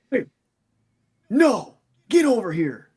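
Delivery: high, loud, drawn-out mock yell; retold scream. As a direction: imitate a dad screaming at his kid. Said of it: "he screams".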